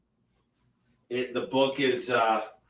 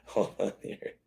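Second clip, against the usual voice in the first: muttered aside; 2 semitones lower, 7 dB quieter than usual. Real, not acted. Muttering while searching the book.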